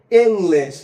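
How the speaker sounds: ইংলিশ as a Chinese-accented "eng-lesh". Shown as a demonstration. Teacher showing how Chinese speakers say English, Chinese accent. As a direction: slip into a Chinese accent, opening the first vowel to "eng". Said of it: "চাইছি কি হবে?".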